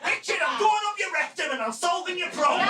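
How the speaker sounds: cheerful, brash medicine voice; voicing the medication. Rectisol personified speaking to him.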